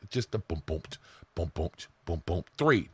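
quiet, low "boom, boom" like a heartbeat pulse; soft heartbeat booms. Shown as a demonstration. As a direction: tap out the beats softly with your voice. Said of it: "Three heartbeats".

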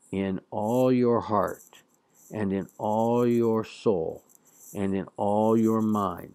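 slow, deliberate reading of the commandment; solemn scripture reading. Shown as a demonstration. Teacher reads the translated commandment aloud, slow and solemn. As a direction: read it like a lectern reading, unhurried.

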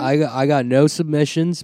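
lightly put-on Aussie accent; mock Australian, playing along. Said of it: "Are you Australian?".

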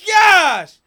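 high, drawn-out shout of disbelief; stunned shouting. Real, not acted. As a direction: cry out slowly at a shock knockout. Reacting to a knockout live.

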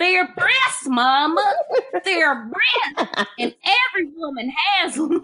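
imitating Carrie. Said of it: "That's exactly how she sounds".

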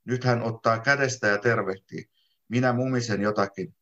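plain reading voice

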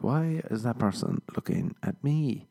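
slightly hushed mock paranoia; mildly hammed-up paranoid wondering; paranoid thought. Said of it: "When I was getting paranoid".

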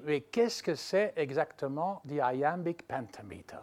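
an awed whisper of a question. Retold or imitated. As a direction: murmur it under the breath, almost voiceless. Al Pacino asking actors. (chuchotement de curiosité)

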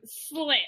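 "slipped" set apart as a so-called term; air quotes on "slipped". Real, not acted. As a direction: put audible quote marks round "slipped". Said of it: "making air quotes right now".

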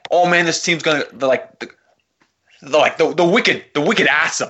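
put-on light Southie Boston accent. Bruins fan friend celebrating a win, light Southie accent. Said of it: "He sounds like he's from Southie".

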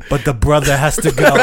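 lightly imitated British club owner; British accent. British club owner looks at the friend, mock British accent. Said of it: "You have to do the accent".

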